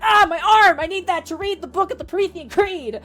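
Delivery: hammed-up high cry of agony; wounded man's wail. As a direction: wail melodramatically over a lost arm. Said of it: "collapses to the ground and is like".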